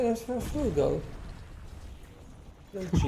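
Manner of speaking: hammed-up posh English accent. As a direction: say it like an upper-class English gent. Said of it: "Was that your posh accent?".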